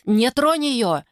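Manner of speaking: high urgent shout. Acted. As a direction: yell to spare her. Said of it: "выкрикнул Трид".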